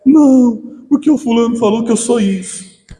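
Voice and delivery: put-on high, loud whiny child voice; crying child. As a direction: play the hurt little kid sobbing out the reason.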